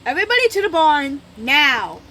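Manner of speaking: very loud, high, fast order; loud angry command; commanding hiss. A narrator's reading. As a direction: bark the order at the pack. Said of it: "he hissed".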